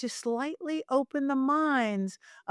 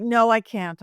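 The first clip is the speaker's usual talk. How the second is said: firm no; 6 dB louder, slower than usual. Retold or imitated. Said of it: "I'm like".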